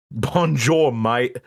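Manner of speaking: put-on silly French-Australian mash-up accent; mock Aussie greeting with French flavour. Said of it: "I'm Australian French".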